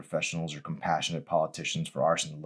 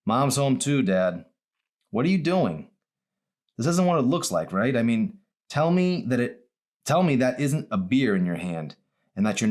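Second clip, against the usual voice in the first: raised, higher, hurt and accusing; upset confrontation; 6 semitones higher, 4 dB louder than usual. Acted. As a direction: demand answers from your father. Daughter confronts drinking father.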